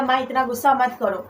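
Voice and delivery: fond coaxing. Retold or imitated. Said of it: "बहुत लाड से मैंने प्यार से". (लाड से, प्यार से मनाते हुए)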